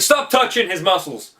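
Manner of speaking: jealous protest. Retold or imitated. Star-Lord objecting as Gamora touches Thor, mock indignant.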